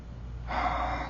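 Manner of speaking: heavy breathless exhale; out-of-breath sigh. Real, not acted. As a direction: let out a tired breath. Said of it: "I'm really out of breath".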